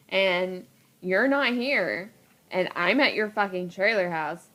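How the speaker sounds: mildly indignant, emphatic retelling of an argument; retold angry telling-off. Telling off an ex for leaving on their anniversary, mildly pissed off. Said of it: "I was so pissed off".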